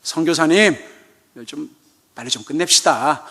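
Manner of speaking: mock worn-out church member; tired grumbling. Same member an hour later, weary and grumbling. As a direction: whine to hurry things along. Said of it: "그랬더니".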